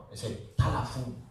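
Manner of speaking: telephone said talafun, Arabic vowels; Arabicized word. Shown as a demonstration. Teacher showing how Arabs reshape the word, Arabic pronunciation. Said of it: "They don't say telephone".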